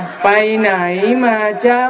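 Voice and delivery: very slow, easygoing northern drawl; northern Thai accent. Retold or imitated. Preacher showing how slowly northerners greet, in northern Thai accent. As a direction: stretch each word like someone with all the time in the world. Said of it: "มันก็ช้า".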